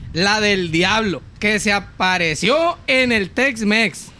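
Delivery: low, slow legend telling; slow spooky campfire voice; ominous storyteller. Acted. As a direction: drop the voice low and slow for the devil. Introducing the devil legend.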